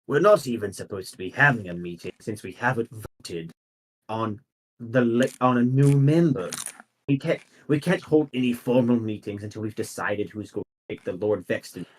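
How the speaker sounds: a hint of an old council member; elderly voice. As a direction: object in an understated elderly voice. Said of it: "an elderly voice".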